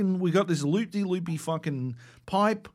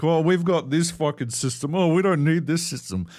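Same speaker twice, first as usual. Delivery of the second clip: mocking a smug know-it-all, a bit louder; smug mockery; 3 semitones lower, 4 dB louder than usual. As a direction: lightly ham up their smugness. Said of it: "fucking smug and shit".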